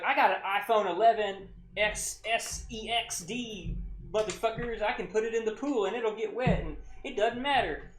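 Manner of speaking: high-pitched mock drunk bragging; drunk Alabama woman. Drunk woman bragging about her waterproof iPhone, mocking imitation. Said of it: "she was from Alabama".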